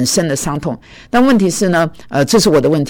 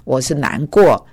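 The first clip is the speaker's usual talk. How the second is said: slow protest. Retold or imitated. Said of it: "我说".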